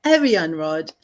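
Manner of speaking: lightly British "Aryan Rod"; a hint of British accent, rounded "Rod"; copying British accent. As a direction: echo the British pronunciation. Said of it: "that was with a British accent".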